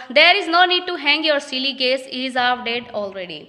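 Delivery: reading each English line slowly and carefully; slow play reading. Acted. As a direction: read it out like a play script, word by word. (धीमी, साफ़ नाटक पढ़ाई)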